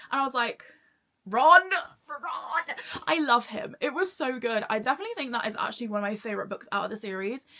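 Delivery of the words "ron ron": loud, high swooning cry of a name; giddy, laughing outburst; fangirl squeal. Retold or imitated. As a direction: call out to your book crush, half laughing. Gushing fangirl reaction to quote.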